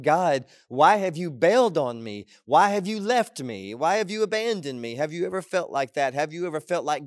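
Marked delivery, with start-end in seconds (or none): 0.0-5.0 anguished complaint. Acted. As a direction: accuse God like someone abandoned. Acts out David's complaint to God.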